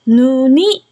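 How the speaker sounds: ぬに, the final n carried into the next vowel; linked pronunciation. Shown as a demonstration. Teacher showing how the Korean word is actually pronounced, linked ぬに. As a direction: run ぬに together as "nu-ni". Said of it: "実際の発音はぬに".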